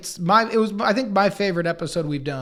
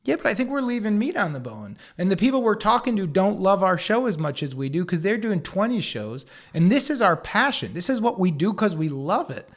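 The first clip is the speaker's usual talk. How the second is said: getting heated; 4 semitones higher than usual. Retold or imitated. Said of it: "Gareth, I'm getting hot here".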